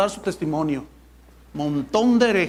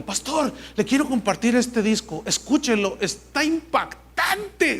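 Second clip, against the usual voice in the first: higher-pitched mock enthusiasm; gushing church member; 4 semitones higher than usual. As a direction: imitate someone breathlessly impressed. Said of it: "alguien me dijo".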